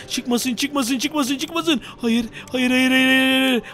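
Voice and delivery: nervous gamer pleading quietly; whispered plea. Real, not acted. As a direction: mutter a plea under your breath. Pleading nothing appears.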